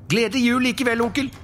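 very high, merry farewell; cheerful nephew. Acted. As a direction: wish it cheerfully, undeterred. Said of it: "sa Fred". (lys, munter avskjedshilsen)

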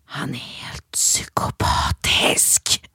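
breathy, slow, unvoiced whisper. Mother imitating her son whispering about the boy who hit him. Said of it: "Så bara viskar han så här".

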